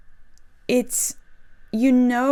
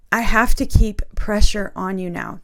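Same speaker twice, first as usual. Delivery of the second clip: getting emotional; 4 dB louder than usual. Real, not acted. Repeating the Spirit's words to viewers, getting emotional. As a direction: voice thick with real emotion, a little louder. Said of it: "Oh, I'm getting emotional".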